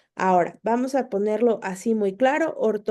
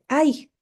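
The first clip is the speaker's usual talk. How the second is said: exclamation ay; 5 semitones higher than usual. Shown as a demonstration. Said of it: "una emoción fuerte que nos hace hacer este sonido".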